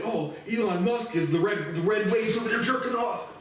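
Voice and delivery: high, loud, mocking gush; shrill parody of free-speech fans; mocking the right. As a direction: squeal it like a gushing fanboy. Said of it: "they're all saying".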